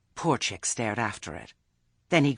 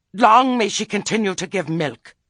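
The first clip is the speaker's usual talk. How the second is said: higher, louder mock-cheerful witch; imitating her cheerfulness; 10 semitones higher, 11 dB louder than usual. Father mimics the witch to his son, mock-cheerful. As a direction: ham up the witch's sunny blessing.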